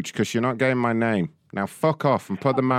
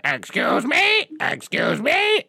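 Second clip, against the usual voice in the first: high, slow mocking excuse me; parrot mimicry; 13 semitones higher, much slower than usual. Manager mocking the customer's excuse me, high and slow. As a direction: repeat excuse me like a shrill parrot. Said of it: "you're like a parrot".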